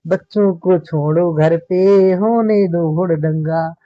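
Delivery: slow, drawn-out playful verse; poem recitation. Acted. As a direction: recite the funny couplet very slowly. Teacher recites comic verse. (धीमा हास्य काव्य पाठ)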